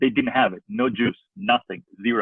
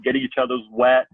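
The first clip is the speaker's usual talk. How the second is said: ordinary talk, nothing marked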